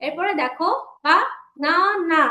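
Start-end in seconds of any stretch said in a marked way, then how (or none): 1.0-2.2 "বা না না" as separate syllables; split into syllables. Shown as a demonstration. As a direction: show the three parts of "বা না না". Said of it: "আমরা তিন ভাগে উচ্চারণ করতে পারছি". ("বা না না" তিন ভাগে উচ্চারণ)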